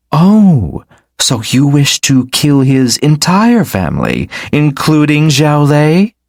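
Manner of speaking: amused disbelief rising; surprised. Acted. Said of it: "The woman was surprised".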